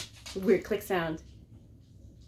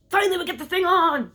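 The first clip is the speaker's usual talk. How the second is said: eager burst, a bit louder and higher; mock excited; 8 semitones higher, 6 dB louder than usual. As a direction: play the overeager owner cheering. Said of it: "they get in there and they're like".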